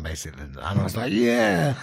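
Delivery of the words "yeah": retold yes. Retold eager reply to director.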